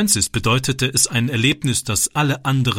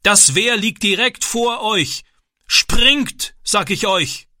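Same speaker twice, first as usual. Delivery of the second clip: urgent shouting; 10 semitones higher, slower than usual. A narrator's reading. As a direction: hammer home the danger, shouting. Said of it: "rief der Mann".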